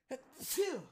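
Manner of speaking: sudden sneeze. Real, not acted. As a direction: let out a sneeze. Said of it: "Sorry, I had to sneeze".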